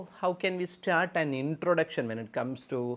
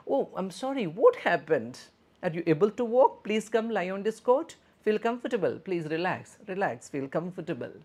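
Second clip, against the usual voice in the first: much higher, concerned nurse voice; caring nurse intonation; 6 semitones higher, 4 dB louder than usual. Shown as a demonstration. Nurse asking a hurt patient gently, higher concerned tone. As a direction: ask with real concern in a lifted pitch. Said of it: "use your proper intonation".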